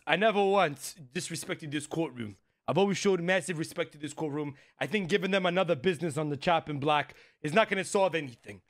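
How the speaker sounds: lightly put-on New York Italian accent. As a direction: play a Brooklyn Italian guy, a touch hammed-up. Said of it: "this accent that you've decided to put".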